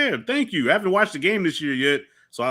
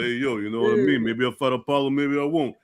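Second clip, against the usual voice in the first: an offhand movie-boxer imitation at near-usual pitch; Rocky. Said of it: "you know how Rocky talks like".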